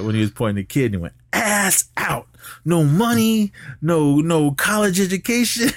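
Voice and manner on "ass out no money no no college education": mocking taunt. The speaker mocking broke Kid, high and laughing. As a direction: rub it in and crack up.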